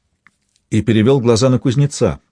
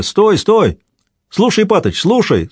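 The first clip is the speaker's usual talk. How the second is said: ringing call; 8 semitones higher, slower than usual. A narrator's reading. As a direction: shout it ringing across the yard to stop them. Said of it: "звонко выкликивая".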